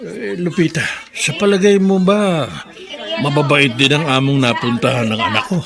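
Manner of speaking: asking through a soft chuckle; light laugh under the words, worried; chuckling question. Acted. Old man chuckling as he asks his friend about the new employer.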